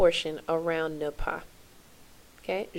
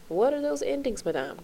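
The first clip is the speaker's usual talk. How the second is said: mock student question; 7 semitones higher than usual. Teacher playing a pupil asking madame, mock student question. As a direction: pipe up like a pupil, then drop in pitch.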